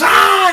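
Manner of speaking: loud high scream of pain; full-voiced reenacted pain shriek. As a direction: scream as if bitten. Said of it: "And he screams".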